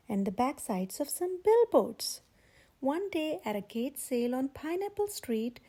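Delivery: steady, clear storybook reading; gentle read-aloud narrator; story narration. A narrator's reading. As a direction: read it like a picture book to kids.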